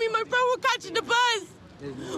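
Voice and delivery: upset yelling, fast then slowing; shouting match. Real, not acted. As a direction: yell back at the officer. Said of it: "Stop yelling at me".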